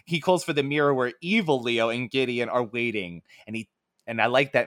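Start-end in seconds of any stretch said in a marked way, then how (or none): none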